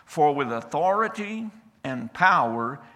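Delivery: slow, loud amazed exclaim; amazed crowd. Acted. The amazed people in the synagogue, loud and slow. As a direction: marvel aloud at his authority. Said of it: "and they said".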